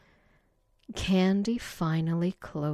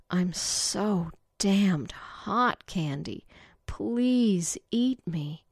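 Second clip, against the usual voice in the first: pleading; 2 semitones higher, slower than usual. Acted. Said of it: "Betty finally pleaded".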